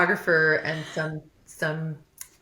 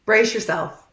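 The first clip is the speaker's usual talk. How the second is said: laughing warning; 4 semitones higher, 8 dB louder, slower than usual. Retold or imitated. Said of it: "and I was like".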